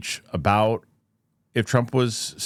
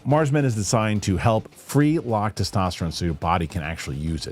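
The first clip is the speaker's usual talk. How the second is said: ad read. Acted. Sponsor read over music.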